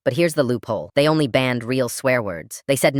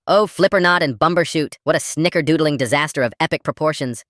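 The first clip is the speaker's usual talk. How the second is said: mock royal outburst; 4 semitones higher than usual. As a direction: declare it like a royal decree gone wrong. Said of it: "and yelled".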